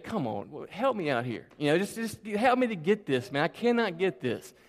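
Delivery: softly re-enacted plea to God; retold desperate prayer. Frustrated kid asking God for math help, hushed retold plea. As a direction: plead under your breath, lightly acted. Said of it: "threw up one of those Hail Mary prayers".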